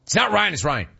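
a hint of KB's retort; imitating KB. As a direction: echo the clip's "not Ryan". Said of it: "host imitates KB clip".

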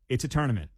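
"tournament" as "TURN-ament"; "TUR-nament", an UR vowel; boss's correction. Retold or imitated. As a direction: firmly say "tournament" starting like "turn". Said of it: "He goes".

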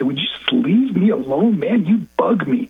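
exasperated retort, dragged out slightly; rude. Retold or imitated. Son to his waiting mom late at night, rude. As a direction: imitate a rude son brushing off his mother. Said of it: "I'd be so rude to my mother".

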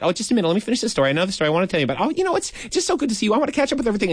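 lightly voiced chatty aunt, speeding up and rising; nonstop chatter. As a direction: gush on without a gap. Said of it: "And she kept talking".

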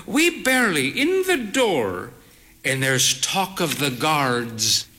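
a hint of the frail old lady; lightly voiced old mother. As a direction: tell it with proud drama. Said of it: "she said".

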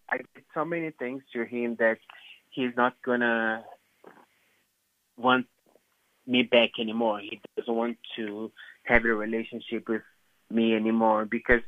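choked, barely-there whisper, close to crying; holding back tears while confessing; near tears. Real, not acted. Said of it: "I'm gonna cry".

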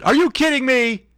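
high-pitched mock outrage; incredulous, hammed-up high voice; mock disbelief. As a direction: squeal it as if scandalized by melted ice cream. Mock outrage over melted ice cream.

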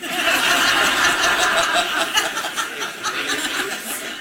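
long airy high laugh; breathy laugh. Real, not acted. Preacher laughing at his own story, airy laugh.

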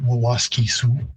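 Wawaskisu with the repeated wa syllable up front, wa-WAS-ki-su; Woods Cree form. Shown as a demonstration. Linguist gives the Woods Cree name: careful Cree pronunciation. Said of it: "in Woods Cree".

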